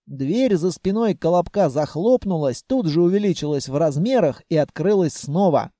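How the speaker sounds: ordinary delivery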